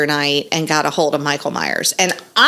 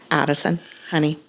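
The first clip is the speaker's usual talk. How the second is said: soft, measured pet name; pause, then gently reason; patient mom; 3 semitones lower, 8 dB quieter, faster than usual. Retold or imitated. Mom retelling how she soothed her child, patient.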